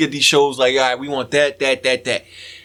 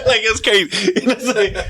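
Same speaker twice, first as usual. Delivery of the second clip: laughing; 5 semitones higher than usual. Real, not acted. Laughing after hype man imitation.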